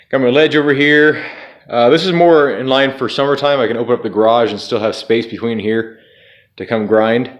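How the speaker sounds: talking through numb frozen lips; stiff, cold lips slurring words. Real, not acted. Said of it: "my lips are frozen, by the way, in case you're wondering why I'm talking weird".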